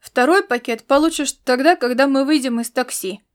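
honking through a pinched nose; nasal, pinched nose. A narrator's reading. Laszlo holding his nose against the stink, nasal twang. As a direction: talk with your nose held shut. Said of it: "прогундосил он, зажимая нос".

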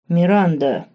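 lightly voiced bass interjection; bass voice cutting in. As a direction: step in firmly like a grown man. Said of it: "вступил в разговор Бас".

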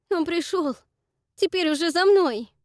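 high, loud, terrified; a shrill, frightened outcry; panicked cry. Acted. Josh panics.

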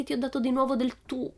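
high, hammed-up alarm; mock frightened cry. Pippi crying out to the teacher, hammed-up alarm. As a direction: pretend to be shocked at herself. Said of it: "gridò spaventata".

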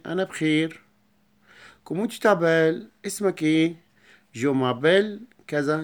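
lively classroom role-play; acted dialogue. Shown as a demonstration. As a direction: act out both sides for the pupils. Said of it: "acts out the whole dialogue".

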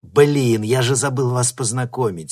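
catching himself, mildly flustered; sudden realization. A narrator's reading. Nikita suddenly remembering to introduce them. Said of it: "спохватился Никита".

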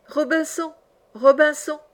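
high, plaintive parrot cry; strident, tearful parrot. A narrator's reading. Lost parrot calling its owner, strident and tearful. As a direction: call out high and woeful from afar. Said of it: "une voix stridente, éplorée".

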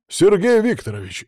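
high, outraged protest; furious exclamation. A narrator's reading. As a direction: cry out the name in fury. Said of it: "яростно воскликнул барон Фадеев-старший".

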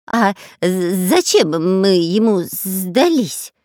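slow, stammering scared robber voice; frightened question. Acted. Robber asking the pirate, stammering with fear. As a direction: stumble over it in fear. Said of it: "испуганно спросил Дырка".

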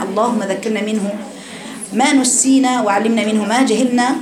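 measured, devout prayer recitation; opening prayer. Acted. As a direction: recite the opening supplication with reverence. Opening prayer before the lesson.

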